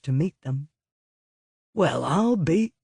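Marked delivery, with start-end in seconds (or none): 1.7-2.7 surprised. Acted. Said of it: "began Van Cortlandt".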